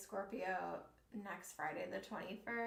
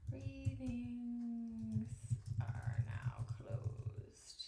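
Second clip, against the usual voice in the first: drawn-out spooky announcement; 4 dB quieter, much slower than usual. Acted.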